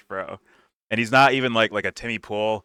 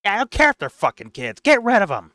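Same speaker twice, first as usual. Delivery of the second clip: higher, louder, fast fake bravado; fake tough guy swagger; 12 semitones higher, 7 dB louder, faster than usual. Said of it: "fake tough guy voice".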